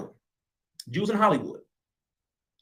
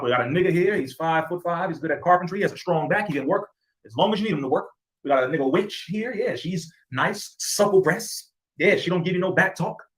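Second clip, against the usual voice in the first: lightly voiced auctioneer hawking his goods; a hint of a salesman pitching to buyers; mock auction-block sales patter, barely shifted from own voice; slave auctioneer. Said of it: "You were the auctioneers".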